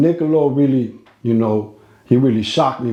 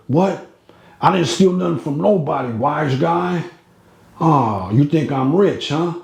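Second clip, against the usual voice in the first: Mister Niccolo voice; 3 semitones higher than usual. Retold or imitated. Storyteller voicing the offended old patient at him, mildly raised and indignant. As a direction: play the touchy old Italian boss, mildly indignant.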